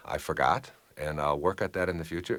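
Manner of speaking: low, calm owning-up; quiet-tempered, matter-of-fact concession; simple admission. Shown as a demonstration. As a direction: admit it plainly without defensiveness.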